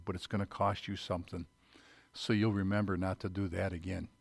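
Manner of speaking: soft, gentle voice of a loving mother; tender mother. Retold or imitated. Mother forgiving her son after he punched the wall, soft and tender. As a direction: lovingly scold the child, softly. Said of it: "And she said".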